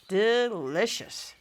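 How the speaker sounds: slow, savoring whisper. Acted. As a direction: breathe it out slowly. Savoring the food.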